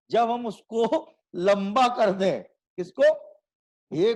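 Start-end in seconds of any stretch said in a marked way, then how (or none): 3.9-4.1 हे stretched very long; prolated vowel. Shown as a demonstration. Teacher stretching हे to show prolation. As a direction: draw हे out further. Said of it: "को और लंबा कर दें".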